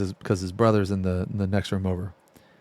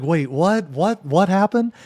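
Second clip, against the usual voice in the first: confused; 7 semitones higher than usual. Retold or imitated. Friend confused, just woken.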